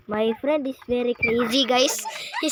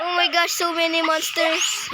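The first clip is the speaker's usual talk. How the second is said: raised, higher-pitched voice of alarm; 5 semitones higher than usual. Real, not acted. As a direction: exclaim as monsters give chase. Chased by many monsters in game.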